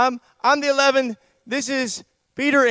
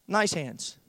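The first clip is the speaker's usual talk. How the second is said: sudden drop to low and soft; mock palatable preaching; 5 semitones lower, 8 dB quieter than usual. Preacher dodging the harsh word wicked, mock-meek softness. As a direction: back off into a meek, toned-down word. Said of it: "talk about some unpalatable preaching".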